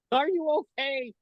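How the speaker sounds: high, alarmed check on someone; panicked concern. Retold or imitated. Magician rushing to the woman he hit, panicked concern. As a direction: reenact a frantic, high-pitched apology.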